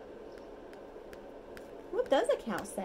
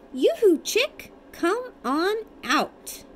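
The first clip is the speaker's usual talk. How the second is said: loud, higher calling-out shout; 9 semitones higher, 9 dB louder, slower than usual. Acted. Parent reads the book's call to the chick, shouted. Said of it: "everybody shout".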